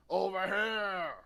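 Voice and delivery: loud, slow call across a field. Acted. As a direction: shout to lure them over. Character calls out.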